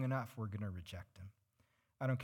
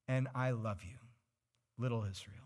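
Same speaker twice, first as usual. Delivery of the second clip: friendly; 2 semitones lower than usual. Acted. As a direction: say it like a loving parent. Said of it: "That one's a little more friendly".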